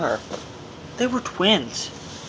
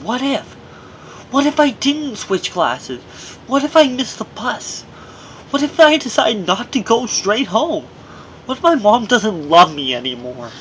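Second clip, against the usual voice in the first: anxious inner thoughts; 5 semitones higher than usual. Retold or imitated. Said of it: "I kept thinking".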